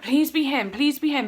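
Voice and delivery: re-enacted fervent wish; urgent pleading. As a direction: beg under pressure, punching each please. Retells praying in the car.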